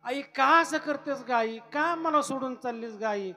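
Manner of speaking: put-on high, loud tearful child's cry; sobbing plea. Nivrutti unable to hold back tears, crying to his mother. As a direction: weep while begging her to stay. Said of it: "निवृत्तीनाथांना रडू आवरे ना".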